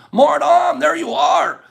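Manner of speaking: high, loud happy greeting; excited call-out. Real, not acted. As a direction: hail a friend you just spotted. Spotting a viewer in chat.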